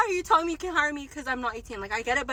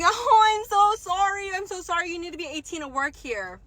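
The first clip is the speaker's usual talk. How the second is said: mock apologetic interviewer; 5 semitones higher than usual. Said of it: "This bitch, she's like".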